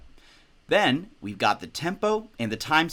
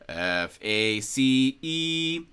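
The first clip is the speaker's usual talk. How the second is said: stepwise rising pitch; 2 semitones higher, much slower than usual. Shown as a demonstration. Teacher spelling out the staff spaces bottom to top, stepwise rising pitch. Letters climb like notes up the staff.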